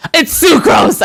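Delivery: loud, high triumphant guess; excited shout. Real, not acted. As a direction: shout the answer like a game show.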